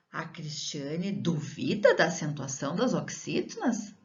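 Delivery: duvida as a verb, du-VI-da, in a question; stress on duVIda. Shown as a demonstration. Teacher contrasting with the noun, questioning with stress on du-VI-da. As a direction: ask it with duvida stressed on VI, rising at the end. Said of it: "se eu tiro esse acento, fica duvida".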